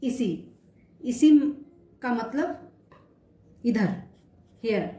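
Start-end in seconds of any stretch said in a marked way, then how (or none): 0.0-1.3 इसी said as ee-see; French "ici", इसी. Shown as a demonstration. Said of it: "कुछ examples देखते हैं।".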